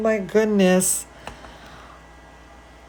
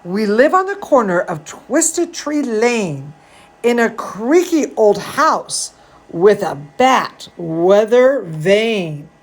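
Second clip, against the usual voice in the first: put-on reading to children. A narrator's reading. Reading Zambolina to kids, lively storybook voice. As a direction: read it like a bedtime story for little ones. Reading picture book aloud.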